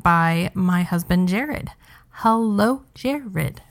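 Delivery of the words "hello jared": mock British greeting; British accent. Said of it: "British accent".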